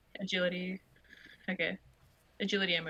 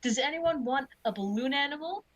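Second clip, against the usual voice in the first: lightly voiced, higher clown; lilting offer, rising at the end; 5 semitones higher than usual. Clown offering balloon animals to kids, lightly put-on voice. Player speaks as Sunny the clown.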